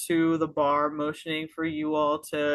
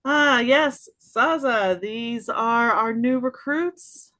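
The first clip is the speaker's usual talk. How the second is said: Misty; 5 semitones higher than usual. Acted. Misty presents recruits to the Vulpin, high and chipper. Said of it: "and goes".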